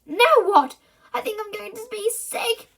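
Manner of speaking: high, pitiful complaint; fake sick boy. A narrator's reading. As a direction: play up being sick. Bertie faking sickness.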